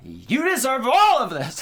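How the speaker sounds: high, very loud theatrical shriek; full-volume diva tantrum, played for laughs; mock diva yelling. Host plays Michael yelling at his victim, mock diva shriek. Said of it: "Fucking yelling at her".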